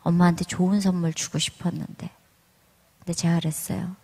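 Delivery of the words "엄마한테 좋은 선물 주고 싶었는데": soft, partly whispered apology; quietly sorry, son letting his mother down; son's sad apology. Retold or imitated. Son apologising to his mother for failing the exam, softly. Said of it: "그러면서 저한테".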